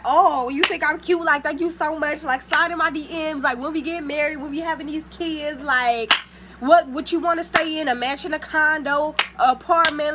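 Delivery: high, loud and gushing; mock gushing girl. Mocking what he expected her to say, high and gushing. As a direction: play the swooning girl he expected, over the top. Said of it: "expected me to be like".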